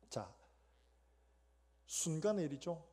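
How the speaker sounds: normal talking voice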